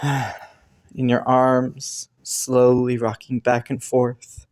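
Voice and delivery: slow and tender. Acted. Rocking in partner's arms.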